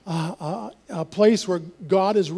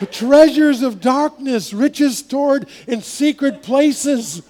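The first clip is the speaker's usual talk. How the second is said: God's voice like the pastor; 6 semitones higher, 5 dB louder, much slower than usual. Retold or imitated. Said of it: "he sounded just like you".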